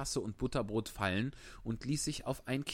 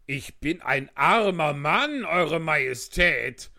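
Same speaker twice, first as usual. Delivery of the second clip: slow, louder pleading with a fearful edge; trembling voice; 7 semitones higher, 10 dB louder, slower than usual. A narrator's reading. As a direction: beg the king as a frightened hatter. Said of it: "mit zitternder Stimme". (zitternde Stimme, ängstlich flehend)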